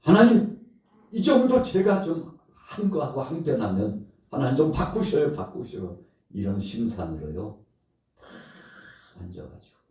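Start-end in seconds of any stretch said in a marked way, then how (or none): 0.0-5.3 high, loud insistent plea; pleading demand. Acted. Jonah pressing God to relent, high insistent plea. 5.3-6.0 sulky mutter. Acted. Jonah repeating his demand to God, soft sulky mutter.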